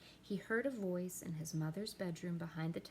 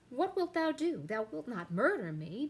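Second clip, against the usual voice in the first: shrill, much higher and louder alarm; pleading for her life; queen afraid her son will kill her, panicked; frightened queen; 6 semitones higher, 8 dB louder than usual. Acted. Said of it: "She's scared and she calls for help".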